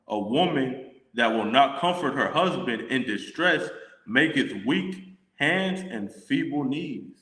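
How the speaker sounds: slow, measured Bible reading; solemn King James recitation; scripture reading. Acted. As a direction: read the verse like a preacher, unhurried. Reads scripture verses aloud.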